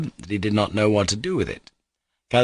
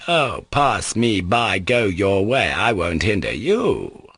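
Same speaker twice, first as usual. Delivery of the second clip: tearful resignation; slower than usual. Acted. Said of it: "bursting into tears".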